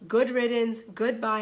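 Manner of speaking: fed-up dismissal. Pretend. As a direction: act out being done with him. Voices a fed-up divorcee's thought.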